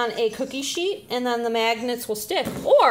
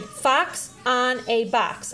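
put-on slow, clear read-aloud for a child; slow modelled reading; much slower than usual. Shown as a demonstration. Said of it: "the adult reads first and then the child repeats".

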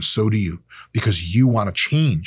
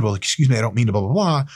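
mocking politeness; faster than usual. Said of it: "that whole bullshit you did".

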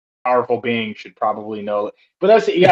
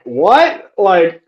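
high, loud, baffled question; retold confusion, pitched way up; baffled group reaction; 10 semitones higher, 5 dB louder, slower than usual. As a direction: blurt it out in mock bewilderment. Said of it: "they're all like".

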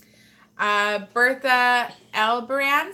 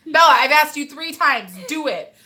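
stern order; 4 semitones higher, 9 dB louder than usual. Retold or imitated. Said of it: "That was today".

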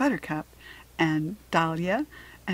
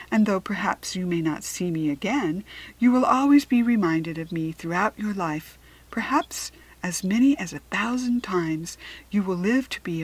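Wiz, assured prophecy; 3 dB louder than usual. Acted. Wiz foretells Harriet's future.

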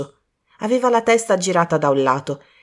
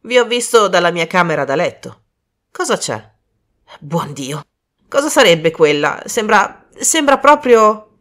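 Desmond, rising alarm; 5 dB louder than usual. Acted. Desmond coming upon the body, rising alarm. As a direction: grow more alarmed seeing the body.

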